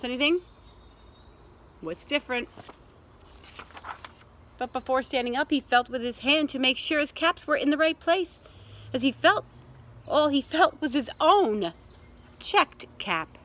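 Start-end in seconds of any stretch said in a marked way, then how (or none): 4.6-13.4 animated picture-book reading, building to a discovery; story narration. A narrator's reading. Peddler feels for his caps, animated storytelling. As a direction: read it with growing surprise for little listeners.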